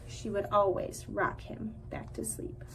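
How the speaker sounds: soft hushed lulling whisper. Acted. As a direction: whisper it like rocking a child to sleep. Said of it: "whispered line".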